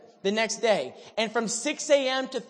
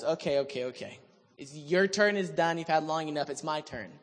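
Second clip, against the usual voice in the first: low, offhand cocky dismissal; 4 semitones lower, 3 dB quieter than usual. Retold or imitated. Elijah taking his turn from the prophets, cocky and low. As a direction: wave them off, cocky and low. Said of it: "cocky Elijah goes".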